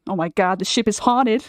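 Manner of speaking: put-on tentative, half-hearted American accent; American accent attempt. Wife auditioning on her husband's cue, half-hearted American accent. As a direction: have a reluctant go at sounding American. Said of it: "I can't picture an American accent".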